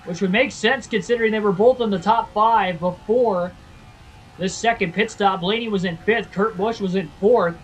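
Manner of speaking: announcer voice. Acted. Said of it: "I sound like the announcer".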